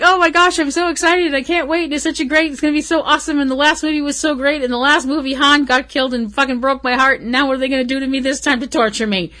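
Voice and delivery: high, breathless excitement, racing by the end; gushing fangirl. Retold or imitated. She plays her own Star Wars fan self, pitched high and gushing. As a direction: squeal it like a fan who can't wait. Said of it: "I'm like".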